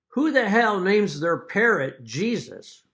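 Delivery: high, loud, slow disbelief; exasperated outburst. Retold or imitated. Burglar turns on the light and shouts at the parrot in disbelief. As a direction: blurt it out, baffled and annoyed.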